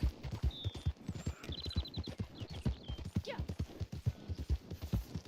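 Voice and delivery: quiet, airless laughing; wheezy laugh. Real, not acted. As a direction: laugh softly, mostly on breath. Amused by chat while streaming.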